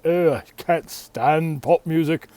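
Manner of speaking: slow, sniffy snob scoffing at pop; drawn-out disdainful scoff, lightly voiced; snooty music snob. Music snob sneering at pop music, mock disdain. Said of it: "if you're a music snob and you want to hit us with the".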